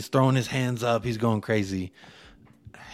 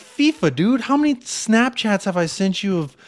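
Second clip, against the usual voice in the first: excited retold rant; 6 semitones higher than usual. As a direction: hype it up like you can't believe it.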